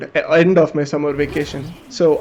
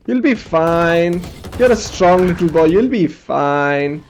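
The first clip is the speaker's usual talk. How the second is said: reassuring; slower than usual. Retold or imitated. Doctor soothing a hurt boy.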